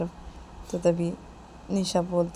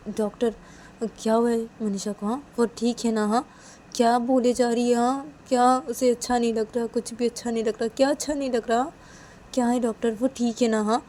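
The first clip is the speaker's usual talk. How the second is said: higher-pitched, urgent string of questions; anxious questioning; 5 semitones higher, 4 dB louder than usual. Acted. Nisha questions the doctor about Manisha, anxiously. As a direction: press the doctor for answers, worried.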